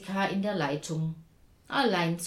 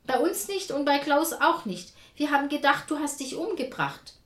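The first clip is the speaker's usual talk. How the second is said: agitated yelling; 7 semitones higher, 5 dB louder than usual. A narrator's reading. Daughter yelling at mother on phone.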